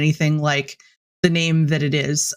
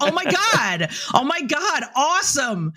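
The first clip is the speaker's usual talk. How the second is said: mock excitement; 10 semitones higher than usual. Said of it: "we always get very excited".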